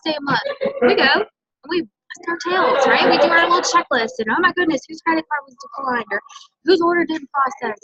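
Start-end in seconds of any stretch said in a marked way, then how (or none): 4.3-7.8 mock panic. Mock end-of-month scramble.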